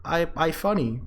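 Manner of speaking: high, dopey gushing; hammed-up giddy voice; mock starstruck streamer. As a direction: gush like a silly fan. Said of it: "it's more like".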